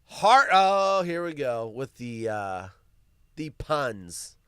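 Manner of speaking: normal talking voice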